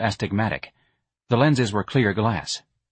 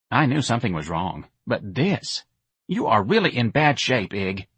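a hint of a worried young woman; lightly voiced Myrna, concerned. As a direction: say it with mild dismay.

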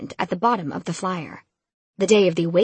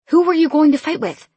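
loud, high exasperated question; 9 semitones higher, 7 dB louder than usual. A narrator's reading. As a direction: demand it, fed up. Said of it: "I asked, exasperated".

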